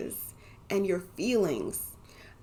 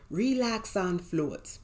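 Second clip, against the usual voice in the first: slow, light imitation of a Grenadian accent; slower than usual. Husband telling her to relax, mild imitated Grenadian accent. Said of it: "in his sexy Grenadian accent".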